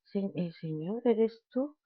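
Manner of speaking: hesitant question, rising in pitch at the end; mock startled. Mary recognizing the risen Jesus, mildly acted startled question. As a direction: lightly act out startled, faltering recognition. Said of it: "ella estaba asustada".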